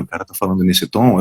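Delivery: ordinary delivery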